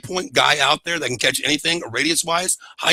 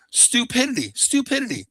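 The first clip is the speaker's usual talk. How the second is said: exasperated outburst; 9 semitones higher than usual. Retold or imitated. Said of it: "and I'm like".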